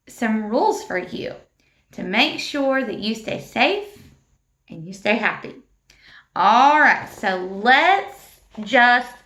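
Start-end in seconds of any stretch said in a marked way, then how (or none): 4.7-5.5 hushed, soft whisper. Acted. Teacher whispering to calm the class. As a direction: breathe it gently to the children. Teacher softly ends a point.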